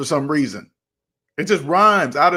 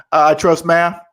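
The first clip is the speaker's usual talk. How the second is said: deadpan answer; 5 dB louder than usual. Shown as a demonstration. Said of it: "Just say it like that".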